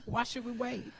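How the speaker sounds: put-on soft African accent; quiet African accent try. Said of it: "I'ma say it how you want it to be said".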